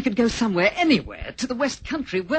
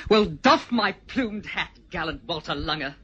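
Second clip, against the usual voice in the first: mock-gallant taunt.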